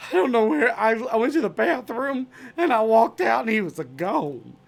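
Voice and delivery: high, loud, fretful explaining; panicked bartender. Retold or imitated. Bartender explaining to Patrick, high and anxious. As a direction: rush the excuse anxiously. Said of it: "And he goes".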